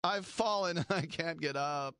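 high yelping mock injury cry; dorky kicker. The dorky kicker chopping wood and hurting himself, in a high mock cry. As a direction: ham up a kicker hurting his knee. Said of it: "his dorky kicker goes over".

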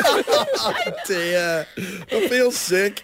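breathless laugh through the words; laughing too hard to speak. Real, not acted. Laughing fit after baby voice.

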